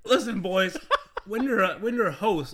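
booming showy host delivery; game show host voice. Acted. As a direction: play it up like a host on stage. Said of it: "you gotta play it up a little bit".

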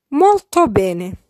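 Molto bene said slowly, both words spelled out clearly; slow careful model. Shown as a demonstration. Teacher slowly modelling Molto bene before splitting it. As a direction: draw out Molto bene for learners. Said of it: "I will syllabify each sentence".

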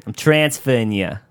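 lightly voiced scratchy Bostonian lady; mock-brusque scratchy Boston voice; Donna. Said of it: "such a scratchy voice".

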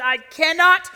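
loud, high, impassioned regret; agonized self-reproach. Acted. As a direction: preach it as someone appalled at their own words. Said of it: "you're left with".

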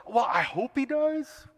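a limp, doubtful shrug of a line; wishy-washy. Retold or imitated. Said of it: "Does that feel wishy-washy?".

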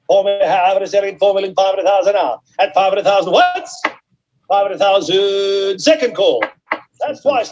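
auction bid spotter. Real, not acted. Auctioneer calling bids live.

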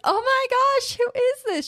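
mock startled shriek. What the girl did not say, a high, loud mock shriek. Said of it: "She's not like".

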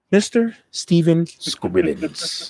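savoured, spaced-out villain name; deliberate name reveal. Acted. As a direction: draw the name out as a big reveal. Name repeated slowly on being asked.

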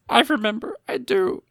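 high, squeaky captive voice; acted frightened eagerness to please; desperate placating. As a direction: insist pitifully, voice climbing. Tearful prisoner placating captors.

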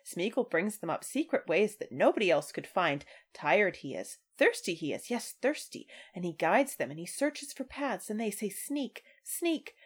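lightly voiced hissing Gollum; a hint of wounded sneering Gollum. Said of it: "He's like".

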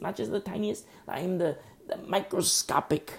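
"tiniest" lifted high and stressed; rising emphatic build. Shown as a demonstration. Preacher to congregation, building emphasis on "tiniest". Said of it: "building from smallest to tiniest".

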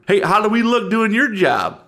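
sneering small-town Southern voice; Southern yokel. Acted. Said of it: "I'm from the South".

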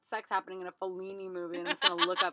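fast, laughing mock kid voice; laughing quote. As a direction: rattle it off while laughing. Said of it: "He was like".

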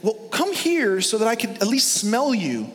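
high, questioning voice of the blind father; doubting old father. Retold or imitated. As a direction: lift it up as a suspicious dad. Acted father-son exchange.

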